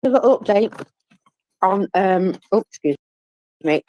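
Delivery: talking through a mouthful of cereal; eating cereal. Real, not acted. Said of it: "I'm actually eating cereal directly out the box".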